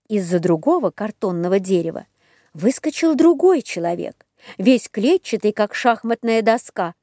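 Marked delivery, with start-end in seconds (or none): none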